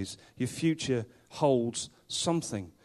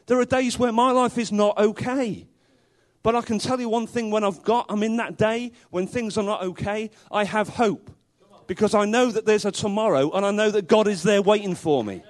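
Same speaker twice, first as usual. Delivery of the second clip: fervent preaching; 6 semitones higher, 3 dB louder than usual. Real, not acted. Preacher rising intensity.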